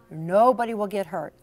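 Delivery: ordinary delivery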